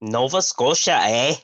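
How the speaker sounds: a light Canadian accent with a rising eh; weak Canadian accent, rising eh. Shown as a demonstration. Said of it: "Let me hear your Canadian accent".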